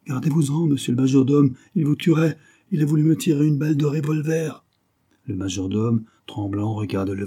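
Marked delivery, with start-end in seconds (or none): 0.1-4.6 high, agitated warning; alarmed, pitched-up caution; urgent warning. A narrator's reading. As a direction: stop him before he gets killed. Valet urgently warns of danger.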